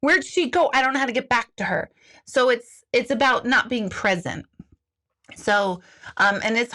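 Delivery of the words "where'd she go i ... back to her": mock lost child. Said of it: "it's like".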